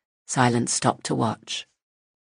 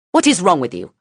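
angry shout; 6 semitones higher, 7 dB louder, faster than usual. Acted. Woman rages at child.

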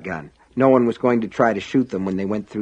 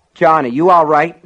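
urgent call; 6 semitones higher, 7 dB louder than usual. Acted. Worried deputy calling to hurt man.

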